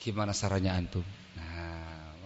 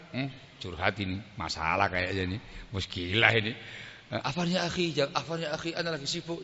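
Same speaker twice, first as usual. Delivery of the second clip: softer, hesitant brush-off; a half-hearted, softer muttered excuse; reluctant excuse; 5 semitones lower, 7 dB quieter, faster than usual. Retold or imitated. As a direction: mumble a polite excuse to get out of it. Acts friend dodging a request.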